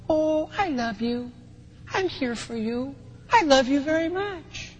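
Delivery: hushed, tender mother's reassurance; mild, soft tone. Acted. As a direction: say it very softly and gently, as a mom soothing her child. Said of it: "in a very mild and soft tone".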